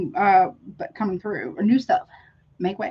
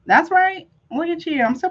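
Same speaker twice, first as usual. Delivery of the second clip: excited; 7 semitones higher than usual. Real, not acted. Reader thrilled by a viewer's card, excited. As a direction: pop up with glee at the card.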